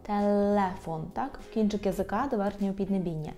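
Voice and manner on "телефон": телефон slowly, with a soft л, tongue tip to the palate; slow телефон, softening the л. Shown as a demonstration. Teacher showing the soft л in телефон. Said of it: "Л повинно бути м'яке".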